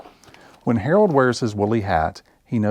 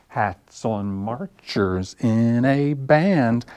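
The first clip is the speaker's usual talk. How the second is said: slow, stretched sing-song chant; rhyme recital; 3 semitones higher, much slower than usual. Acted. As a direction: draw out each beat for little kids. Same words recited in the rhyme.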